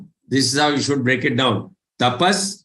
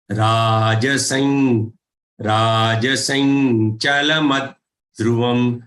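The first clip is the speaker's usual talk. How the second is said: slow and deliberate; 2 semitones lower than usual. Shown as a demonstration. Teacher sounding a word slowly for students. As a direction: say राजसं slowly with a falling end. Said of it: "The stress on her".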